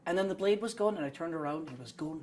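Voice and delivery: lightly imitated Scots-Kiwi storyteller; touch of the shopkeeper's accent; shopkeeper's put-on accent. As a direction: recount a war yarn in a mild Scots-Kiwi accent. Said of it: "he told me all these stories".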